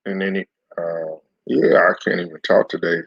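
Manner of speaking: chewing while talking; mouth full. Real, not acted. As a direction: talk through a mouthful. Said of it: "Had some food in my mouth".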